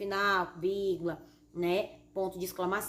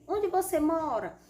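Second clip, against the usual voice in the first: slow, higher-pitched example question; question intonation; 6 semitones higher, 4 dB louder, slower than usual. Shown as a demonstration. Teacher showing pupils how a question sounds, questioning intonation. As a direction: ask with MORA lifted high and drawn out. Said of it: "é muito importante o uso da entonação".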